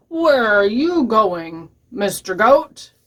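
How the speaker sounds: slow, stretched-out troll question; lightly voiced troll. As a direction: draw out the challenge, mildly menacing. Troll stops the middle goat.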